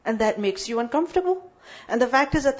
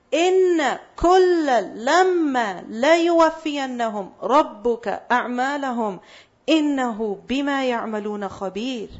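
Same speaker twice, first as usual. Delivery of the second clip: Qur'an recitation; much faster than usual. Acted. Recites the ayah quickly.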